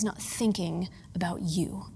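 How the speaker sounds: slow hushed whisper; tender whispered aside. Real, not acted. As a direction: breathe it like a secret. Intimate aside in sermon.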